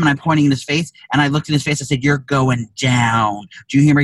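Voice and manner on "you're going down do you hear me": drawn-out mock menace, words spaced slowly; retold threat, slow and heavy. Threatening the man in line.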